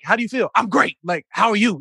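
mock chirpy pleasantries; put-on cheerfulness. Athlete hiding real feelings behind pleasantries, put-on cheerful. Acting fine instead of decompressing.

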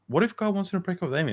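the moment it clicks, lifted; sudden realization. Retold or imitated. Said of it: "all of a sudden I was like".

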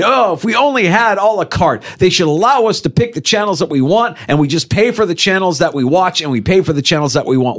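high, wishful imitation of complainers; mock complaint. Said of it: "the complaint was".

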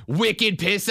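weak Boston accent on wicked pissa. Shown as a demonstration. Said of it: "I can't do a Boston accent".

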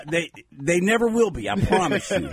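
ordinary delivery

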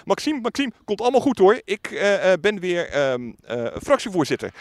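high, upbeat retold call of a name; bright, high imitation of a confident greeting; cheery reassurance. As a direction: play the oblivious, cheerful colleague.

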